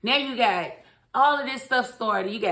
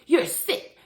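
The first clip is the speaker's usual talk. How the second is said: higher and louder, repulsed; husband disgusted at his wife, louder; disgusted outburst; 5 semitones higher, 4 dB louder than usual. Retold or imitated. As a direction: spit it out in disgust. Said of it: "And he's like".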